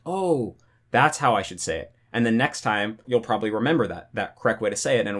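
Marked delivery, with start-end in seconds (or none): 0.1-1.9 acted realisation. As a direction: play a mild lightbulb moment, pitch lifting on "Oh". Acted moment of realisation on hearing it.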